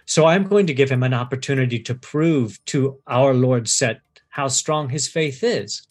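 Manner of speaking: lightly voiced, unhurried sinister explanation; calm sinister priest. Priest explaining the cobra trial to the captive, calmly sinister. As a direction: explain the cruelty as if it were mercy.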